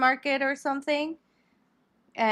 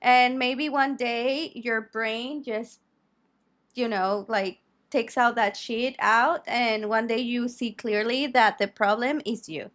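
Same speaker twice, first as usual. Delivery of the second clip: soapbox rant. Real, not acted. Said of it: "Are you done with your soapbox?".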